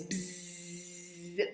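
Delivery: a soft bumblebee buzz; buzzing bee. Shown as a demonstration. Showing the kids her bumblebee buzz. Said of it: "I like to do my bumblebee like this".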